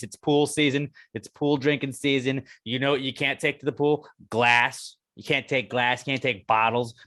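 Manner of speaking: ad read. Acted. Sponsor ad read.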